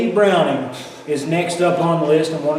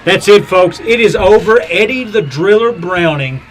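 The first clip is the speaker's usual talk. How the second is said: excited wrestling commentator; 4 dB louder than usual. Acted. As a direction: shout the finisher as it lands. Live match play-by-play.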